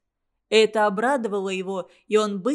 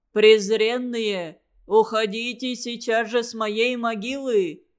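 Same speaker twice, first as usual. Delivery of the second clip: a lightly voiced ghostly graveyard voice; inhuman voice. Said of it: "раздался нечеловеческий голос". (слегка нечеловеческий, замогильный голос)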